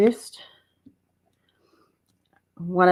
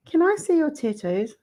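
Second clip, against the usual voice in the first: put-on teenage girl voice; 9 semitones higher than usual. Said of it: "she goes".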